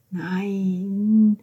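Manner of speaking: drawn-out no at normal volume; restrained, narrated cry of refusal; understated cry. A narrator's reading. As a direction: stretch the word as a muted scream. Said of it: "schrie Georgia".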